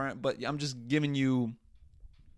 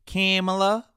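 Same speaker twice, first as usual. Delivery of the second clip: her name pitched up and pushed louder in disbelief; Kamala? rising, louder and higher than before it; higher, louder incredulous call; 6 semitones higher, 7 dB louder than usual. Real, not acted. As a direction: escalate the call in pure disbelief. Repeated calling, escalating.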